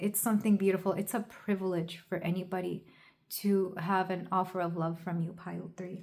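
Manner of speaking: choked-up, breaking voice catching with emotion. A tarot reader giving a reading to a listener: choked up. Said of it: "I'm just getting choked up hearing this".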